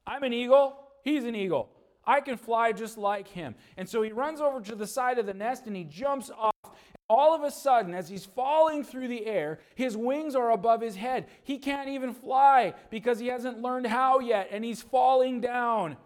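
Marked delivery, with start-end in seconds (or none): 0.0-3.5 excited, higher and louder boast; boastful eaglet. Acted. Junior bragging he can fly like his dad, excited and loud. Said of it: "Junior says". 7.1-16.0 louder, higher, building drama; dramatic narration. A narrator's reading. Storyteller narrating the eaglet's fall, excited and louder.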